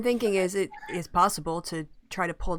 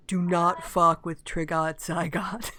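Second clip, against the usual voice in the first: slow mock demonic pronouncement, not really booming; lightly played demon voice, slowed right down; slower than usual. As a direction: space the words out like a half-hearted demon threat. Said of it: "booming demonic voice says".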